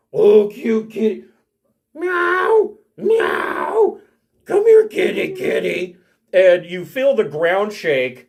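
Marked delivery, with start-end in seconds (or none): 0.2-6.0 hill giant voice, pitched higher. Voicing a hill giant who calls to a cat: hill giant voice. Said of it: "the hill giant sees Rillix and".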